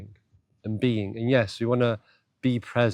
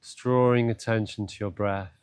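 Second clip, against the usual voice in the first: guided meditation; 2 semitones lower than usual. Acted. Teacher guiding listeners to breath and body, meditative. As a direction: ease the listener in, with long pauses.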